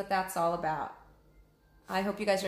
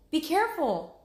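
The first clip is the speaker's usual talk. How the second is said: Annie warning; 9 semitones higher, 5 dB louder than usual. Acted. Annie warns Jack.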